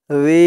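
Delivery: stretched জি with a long "ee"; long vowel. Shown as a demonstration. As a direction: hold the vowel of জি for one alif. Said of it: "জি এক আলিফ টান".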